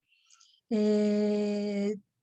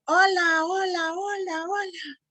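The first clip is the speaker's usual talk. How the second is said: echo; 7 semitones higher than usual. Shown as a demonstration. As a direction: mimic a cave echo dying away. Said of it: "el eco me va a responder".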